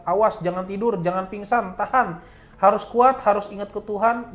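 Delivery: imitating an urgent warning, rising in pitch; urgent exhortation. Helper telling narrator to stay awake, urgent retold warning. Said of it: "Si Akangnya bilang".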